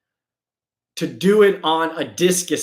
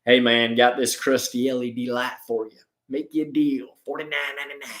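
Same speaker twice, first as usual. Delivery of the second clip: lower, softer sleazy basement seller; shady dealer voice; 5 semitones lower, 4 dB quieter than usual. Retold or imitated. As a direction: pitch it like a back-alley deal. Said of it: "They're like".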